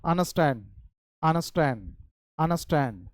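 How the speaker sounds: अंडरस्टैंड said through the nose with no D sound, anəstɛn; nasal understand. Shown as a demonstration. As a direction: drop the D in अंडरस्टैंड and let the N ring in the nose. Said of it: "यानी आपको थोड़ा नाक से बोलना होगा". (अंडरस्टैंड बिना डी के, नाक से बोलिए)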